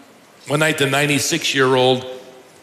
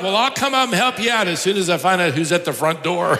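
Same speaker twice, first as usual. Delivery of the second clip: mild mock holler; 4 semitones higher, faster than usual. Youngest sister calling up to the others, mock hollering. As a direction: rattle it off as if calling upstairs. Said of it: "Then she hollered up".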